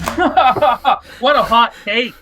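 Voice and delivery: laughing through the words, slow; amused laugh-talk; real laughter on the line. Real, not acted. Laughing at friend's joke.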